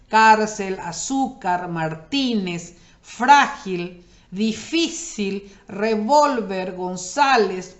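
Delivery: slow list, punching CÁR in cárcel, FRÁ in frágil; word by word, stretching each stressed syllable, as in di-FÍ-cil; stress on penultimate syllable. Shown as a demonstration. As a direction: lean on the next-to-last syllable in cárcel, azúcar, difícil, González. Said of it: "Siempre hay que mirar la penúltima sílaba".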